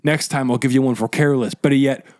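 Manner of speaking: lightly voiced cop giving a warning; imitating a cop, only slightly put on; cop impression. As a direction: play a hint of an officious cop. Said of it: "my impression of the cop that yelled at me".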